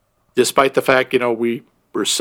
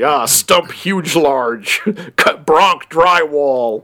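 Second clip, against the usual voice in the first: Mystery Science Theater riff; much slower than usual. Retold or imitated. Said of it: "like, Mystery Science Theater".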